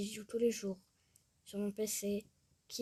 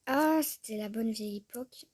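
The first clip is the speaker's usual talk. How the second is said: loud nostalgic sigh; 5 dB louder than usual. Real, not acted. Vlogger reminisces over old Sims creations, loudly nostalgic.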